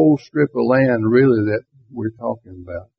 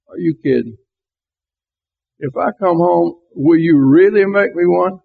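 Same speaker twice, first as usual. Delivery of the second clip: higher, mildly sarcastic disbelief; acted-out incredulous question; sarcasm; 6 semitones higher than usual. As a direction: voice his doubt, pitched up. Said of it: "sarcasm in his voice".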